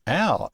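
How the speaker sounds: "ow" as the vowel in Faust; alpha upsilon sound. Shown as a demonstration. Teacher showing Greek alpha upsilon, sound demonstration. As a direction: say "ow" with the Faust diphthong. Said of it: "Alpha upsilon is".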